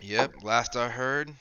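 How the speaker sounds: slow, unhurried innkeeper recollection; a touch of a folksy old acquaintance; lightly voiced establishment owner. Recalling news of the traveler, slow lightly voiced owner. Game master plays tavern owner.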